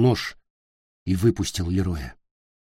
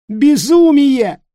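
high, loud, drawn-out cry; shout; 10 dB louder, much slower than usual. Acted. Nick shouting after Peter, loud and slow. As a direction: call it after him at full voice. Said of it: "крикнул Ник ему вслед".

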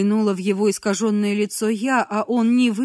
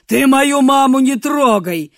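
loud, high enraged shout; furious shout; 4 semitones higher, 9 dB louder than usual. Acted. Man looming over captive, furious shout. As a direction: roar at her to leave his mother alone. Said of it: "надвинулся на меня".

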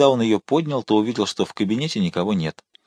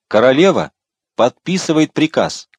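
shout; 4 semitones higher, 5 dB louder than usual. A narrator's reading. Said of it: "крикнул коадьютор".

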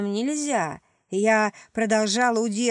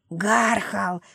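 lightly rasped creature cry; a hint of a choking wheeze; wheezed. A narrator's reading. Creature held by the throat, wheezed. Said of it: "просипела тварь".

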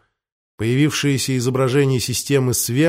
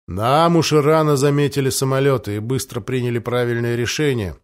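unruffled calm; 2 semitones lower than usual. Acted. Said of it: "невозмутимо ответил Нестор".

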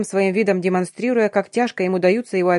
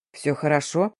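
reassuring; 4 semitones lower, 4 dB quieter than usual. A narrator's reading. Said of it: "успокоил Тамир".

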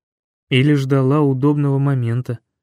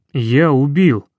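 anguished cry; 5 dB louder, slower than usual. Acted. Hero cries out in guilt.

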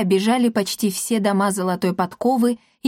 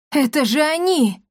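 high happy cry; joyful shout; 6 semitones higher than usual. Acted. Yan spotting the freed captives, joyful shout. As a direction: recognize them with delight. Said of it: "радостно крикнул Ян".

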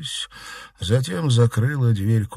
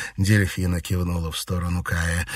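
ordinary delivery, nothing marked

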